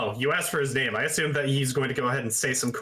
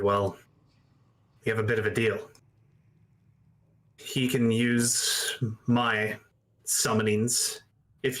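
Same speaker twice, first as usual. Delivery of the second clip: halting, measured in-character account; war veteran confessing a deal. Acted. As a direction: explain haltingly, with long pauses.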